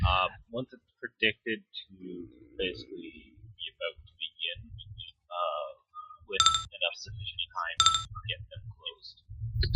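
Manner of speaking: faint, distant from the microphone; talking ten meters from the mic; far from mic. Real, not acted. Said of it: "you are really quiet, like you're talking, like, ten meters away from your mic".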